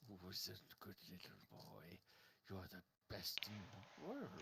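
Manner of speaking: soft doting pet talk; baby talk to pet. Acted. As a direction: coo at the goldfish. Dwarf talks to goldfish.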